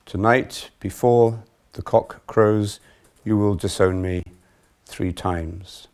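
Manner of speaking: measured, projected Gospel narration; deliberate public Bible reading; scripture reading. A narrator's reading. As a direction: read it out solemnly, pausing between phrases. Reads the Gospel passage aloud.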